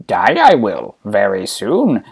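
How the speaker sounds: put-on low, slow old master; Yoda. Dying master answering his pupil, low slow Yoda voice. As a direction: pronounce it low, slowly trailing down. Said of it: "And Yoda says".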